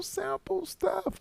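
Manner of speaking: whisper. Pretend. Playful repeated catchphrase.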